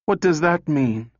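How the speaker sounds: high, sharp question; crying out. A narrator's reading. Calvin challenges Lanning's answer, crying out. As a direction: cry it out, pitched well up. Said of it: "cried Calvin".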